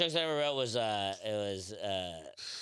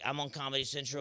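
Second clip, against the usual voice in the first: arrogant. Retold or imitated. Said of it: "with a huge arrogant attitude".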